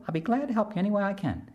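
quick high mosquito, glad to help; eager mosquito voice. Acted. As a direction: rattle it off brightly like a little bug.

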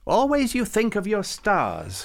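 mock grumbling saint. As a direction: complain like a fussy old man. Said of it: "Farouk grumbled".

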